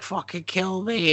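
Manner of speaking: high, drawn-out fake crying plea; mock crying. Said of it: "And he's crying".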